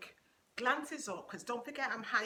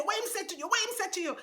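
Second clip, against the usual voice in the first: Jamaican demand; 9 semitones higher, 4 dB louder, faster than usual. Retold or imitated. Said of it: "He said".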